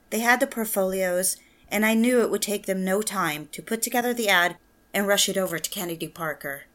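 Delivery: soft inward narrator voice over music; reflective story narration. A narrator's reading. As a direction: tell it like a quiet memory.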